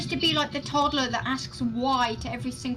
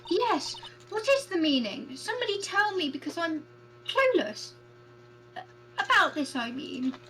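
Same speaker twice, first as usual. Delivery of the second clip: clueless judge voice; 5 semitones higher than usual. Acted.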